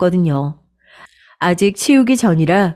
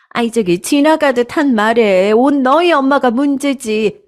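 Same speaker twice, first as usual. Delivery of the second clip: higher, sneering blame ending in a shrill shriek; scornful mother-in-law; 6 semitones higher than usual. Acted. Mother-in-law blaming the bride's mother, shrill. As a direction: sneer then shriek in outrage.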